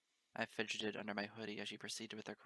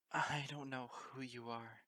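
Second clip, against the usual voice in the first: stammering tearful; 3 semitones higher, slower than usual. Acted. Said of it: "I stammered".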